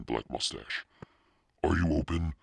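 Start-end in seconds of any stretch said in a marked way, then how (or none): 1.6-2.3 higher, tentative question; timid. A narrator's reading. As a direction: ask timidly, like an unsure customer. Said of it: "Carly Beth asked timidly".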